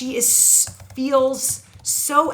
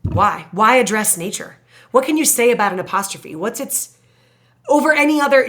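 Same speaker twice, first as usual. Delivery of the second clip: student's question; 6 dB louder, faster than usual. Retold or imitated. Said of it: "as a student asked me today".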